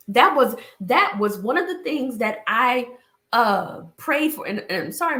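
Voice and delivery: a slightly trembling voice; shaky voice. Real, not acted. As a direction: voice shaking from allergies. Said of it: "my voice is shaking".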